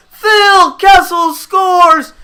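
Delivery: high, loud, drawn-out name of the scorer; shouting the scorer. Real, not acted. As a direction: stretch the name out like a commentator crowning the hero. Name shouted after goal.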